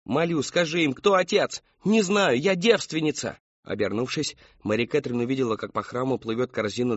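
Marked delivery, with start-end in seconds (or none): 0.1-1.6 high, rising-intensity entreaty; desperate pleading. A narrator's reading. Mother begs daughter to confess. 1.8-3.4 high, forceful protest; desperate denial. A narrator's reading.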